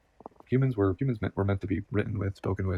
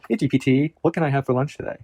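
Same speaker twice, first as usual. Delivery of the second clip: mock casual request; 5 semitones higher, 7 dB louder than usual.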